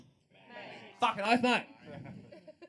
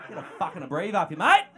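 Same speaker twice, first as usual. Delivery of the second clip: ocker yell; 4 semitones lower, 9 dB louder than usual. Acted. Shouting ocker slang at crowd.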